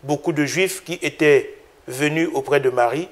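measured, solemn Gospel reading; calm lector voice, each clause set apart; scripture reading. Acted. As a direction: read the passage as a liturgical text. Gospel read before the homily.

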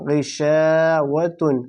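গিশাওয়াতুন drawn out in full; slow blended word. Shown as a demonstration. Teacher completes the built word, chanted slowly. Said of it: "তা দো পেশ তুন".

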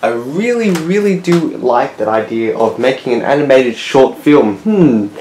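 loud, eager brainstorming; excited idea. Pretend. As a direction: blurt out the bright idea. Estate worker gets excited idea.

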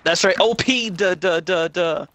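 loud goofy mockery; sing-song mocking duh. Real, not acted. Mocking his own comment.

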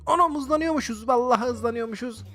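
high-pitched startled realization; alarmed surprise. Real, not acted. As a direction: react as the game suddenly speeds up. Game suddenly speeds up.

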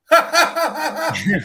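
high, loud, stiff forced "ha ha ha"; mock fake laugh. Podcast host imitating the Beta unit's forced laugh, mock. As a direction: imitate a robot trying to laugh on cue. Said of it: "And he goes".

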